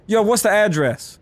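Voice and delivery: "address" said AD-dress, drawn out slowly; stress on first syllable. Shown as a demonstration. Player shows viewers their own way, "address" as AD-dress. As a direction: hit AD in "address". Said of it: "But I say".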